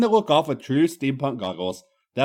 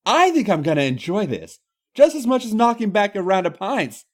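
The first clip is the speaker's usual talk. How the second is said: too eager; 6 semitones higher than usual. Acted. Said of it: "rather too eagerly".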